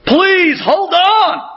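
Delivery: high, desperate begging; retold screaming plea. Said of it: "he's screaming to him".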